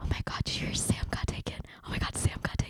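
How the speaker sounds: very quiet, breathy whisper. Acting out people gossiping about who got taken: imitating people whispering. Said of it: "people are whispering".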